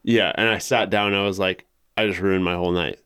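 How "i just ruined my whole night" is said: out of breath. Real, not acted. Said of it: "you're way out of breath".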